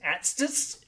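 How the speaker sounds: Atstis said as one tongue-twisting word; acronym as word. Shown as a demonstration. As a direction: run the letters of Atstis together as a word. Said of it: "what do you call the A T S Ts".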